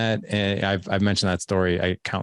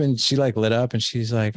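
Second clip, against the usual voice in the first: ordinary delivery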